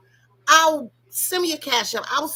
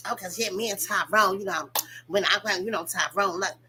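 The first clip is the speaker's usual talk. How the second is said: lower, rambling mock excuse; lightly voiced flustered woman; mocking Sheree; 4 semitones lower than usual. Imitating Sheree's flustered excuse, a mild mock. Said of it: "she wanna be".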